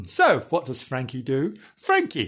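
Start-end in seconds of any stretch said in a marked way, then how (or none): 1.8-2.3 high-pitched name. Shown as a demonstration. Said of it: "he's become Frankie all of a sudden".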